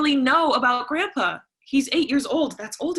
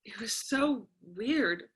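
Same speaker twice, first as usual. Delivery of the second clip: tearful; 6 dB quieter than usual. Acted. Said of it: "Celia has been crying".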